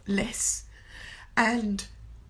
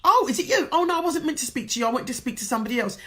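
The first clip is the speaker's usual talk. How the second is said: flustered apology; 4 semitones higher, 5 dB louder, faster than usual. Retold or imitated. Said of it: "you go".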